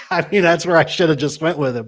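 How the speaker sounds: talking through laughter; laughing. Real, not acted. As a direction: laugh while admitting it. Laughing at himself.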